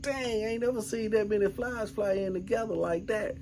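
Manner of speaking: amazed. Retold or imitated. Man retelling his shock at the swarm of flies, amazed.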